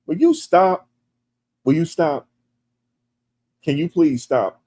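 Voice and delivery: high-pitched, loud plea to stop; exasperated pleading. Real, not acted. Mock-scolding a teasing chat commenter.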